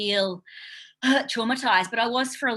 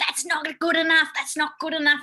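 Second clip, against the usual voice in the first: mock half-yelled tone, high and mild; 6 semitones higher than usual. Recalling a father yelling at the speaker's sister, retelling his yelling. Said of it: "he was just yelling at her".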